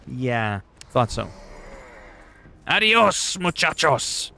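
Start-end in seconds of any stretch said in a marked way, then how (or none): 2.7-4.3 mock farewell. Mock farewell to the Americans, high and cheeky. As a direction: wave them off cheekily.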